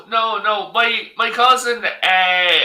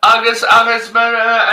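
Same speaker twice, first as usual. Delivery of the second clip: Irish gibberish; 2 semitones higher, 3 dB louder than usual. Retold or imitated. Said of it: "she's speaking Irish".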